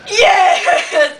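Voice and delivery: high, drawn-out put-on cry; mock defeated wail. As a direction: wail it like your worn-out friend. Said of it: "she is just so defeated".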